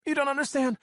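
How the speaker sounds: high, loud shout through sobs; sobbing shout. A narrator's reading. Captive shouts at the speaker through her sobs, loud. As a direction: choke out a shout through tears. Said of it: "she shouts through her hands".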